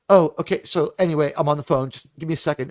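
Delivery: lightly acted smug brush-off; offhand, mildly self-important phone excuse. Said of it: "she's a smug default character".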